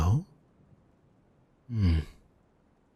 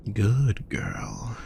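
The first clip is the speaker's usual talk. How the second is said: whispered praise. Acted. Whispering praise to calm a nervous partner. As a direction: whisper it close and tender. Tender praise after deep breaths.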